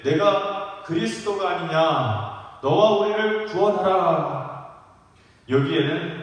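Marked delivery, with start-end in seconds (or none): 0.0-4.7 scripture quote with a taunting push, slow start growing louder; mocking challenge. Criminal taunts Jesus on the cross, mocking challenge. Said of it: "비방하여 이르되".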